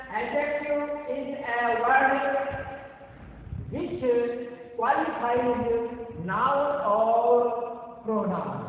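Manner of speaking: very slow, word by word definition; slow dictation. Shown as a demonstration. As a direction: dictate it to a class, pausing between phrases. Teacher reads out a definition. (धीरे-धीरे, रुक-रुककर परिभाषा पढ़ाते हुए)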